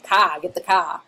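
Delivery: lightly imitated Boston accent, r dropped; Bostonian accent. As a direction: drop the r like a Bostonian. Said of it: "kinda like a Bostonian".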